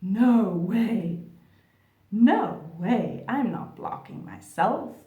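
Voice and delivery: loud flustered denial. Pretend. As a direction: push it away hard, refusing. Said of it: "the normal human reaction".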